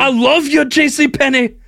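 high, gushing love declaration. Acted. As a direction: swoon over the name.

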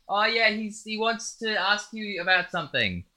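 high, softened mock yell; imitated calling across. Desk girl relaying to the boss across the store, imitated distant yell. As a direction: call across a shop without real volume. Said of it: "like, yelling across the whole fucking store".

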